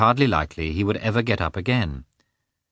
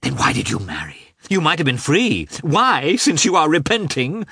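high, hurt accusation building in force; wounded wife's bitter outburst; angry reproach; 8 semitones higher, 4 dB louder than usual. A narrator's reading. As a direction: hurl it back, climbing in pitch. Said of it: "tears of anger and resentment".

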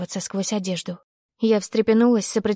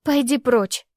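high, sharp dismissal; angry; 4 semitones higher, slower than usual. Acted. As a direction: drive him away angrily. Heroine drives him away.

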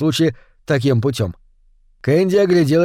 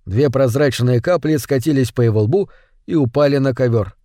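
ordinary delivery

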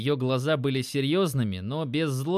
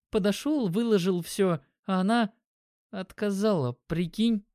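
put-on young guy, shy confession; 6 semitones higher than usual. Dimon's voice, higher.

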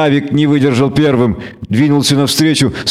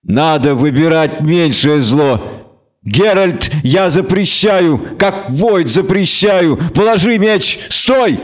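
stern alderman pleading; 3 semitones higher than usual. Acted. Captain forbids Geralt, ends shouting.

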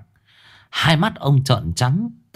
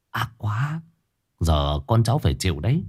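much softer, murmured gossip; hushed gossip; 5 dB quieter than usual. Acted. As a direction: tut over the family's fate under your breath. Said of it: "mà thì thầm".

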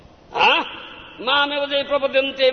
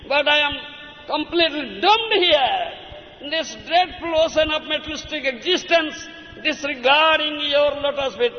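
raised, pleading cry to the Lord; crying prayer to Krishna; 6 semitones higher than usual. Acted. Preacher acting a devotee crying to Krishna, raised pleading. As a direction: plead like a drowning devotee, voice lifted. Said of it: "Then cry, cry before Krishna".

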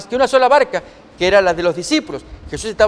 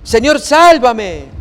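slow, louder mock-desperate cry; cry for help; 4 semitones higher, 6 dB louder, much slower than usual. A narrator's reading. Peter sinking in the wind, crying to the Lord in mild mock panic. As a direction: call out as if sinking. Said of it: "comienza a gritar".

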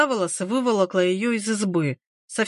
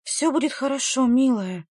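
slightly higher, reassuring voice; soothing; 3 semitones higher than usual. A narrator's reading. Midwife trying to calm Varvara, soothing. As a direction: try to calm a frightened patient. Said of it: "попыталась успокоить её Егишна".

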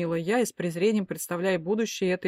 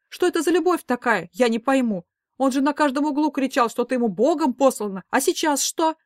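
high, loud outraged questioning; indignant mother; 6 semitones higher, 6 dB louder than usual. A narrator's reading. Mother railing about the ex-husband, loud indignant. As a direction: demand answers in outrage.

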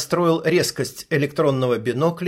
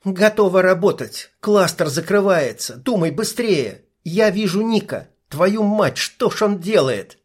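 higher, lightly voiced young woman; female sniper voice; 5 semitones higher than usual. Sniper briefing her partner through binoculars, young woman's voice. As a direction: narrator gives the sniper her own voice.

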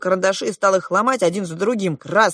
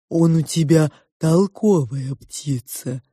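slow, drawling sow; amused pig; 3 dB louder, slower than usual. A narrator's reading. The pig comments on the parrot, amused. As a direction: drawl it slowly as the smirking pig. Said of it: "усмехнулась свинья".

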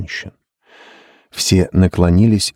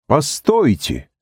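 a drawn-out, higher call of "stop"; shouting; 9 semitones higher, slower than usual. A narrator's reading. Casey stops the others, a drawn-out mild shout. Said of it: "закричал Кейси".

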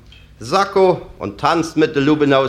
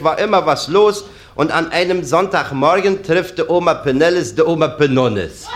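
ordinary talk, nothing marked

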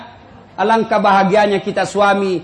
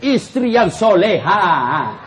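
boasting husband; 2 semitones lower, slower than usual. Retold or imitated. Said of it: "dia kasih lihat itu semua".

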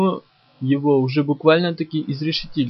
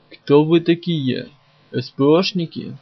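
grating monster voice; 3 dB louder than usual. Acted. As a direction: scrape the words out like a monster. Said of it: "Заскрежетало надо мной".

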